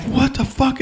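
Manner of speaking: sudden very high astonished yelp; retold disbelief. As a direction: squeak it out in shocked disbelief. Finds child hiding in overhead bin.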